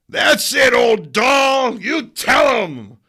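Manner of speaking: loud, high cheering yell; rowdy bystander shouting encouragement at the old lady. Acted. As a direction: whoop her on from the crowd.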